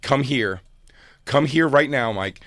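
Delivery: calling him over. Retold or imitated. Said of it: "she starts going".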